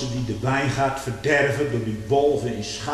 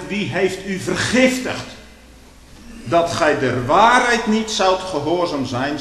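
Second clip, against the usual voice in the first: vermanend preken; 5 semitones higher, 7 dB louder than usual. Acted. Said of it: "daarom trekt Paulus zo van leer".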